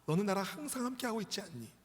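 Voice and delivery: acted fatherly appeal, slowing at the close; pleading father. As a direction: reason with your son, rising then settling. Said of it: "그 아들에게 아버지가 말합니다".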